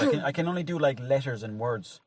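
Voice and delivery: normal talking voice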